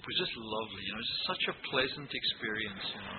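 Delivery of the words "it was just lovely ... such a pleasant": dry mock praise, pitched up high; sarcastic. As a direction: pretend it was a treat. Ironic praise of boot camp.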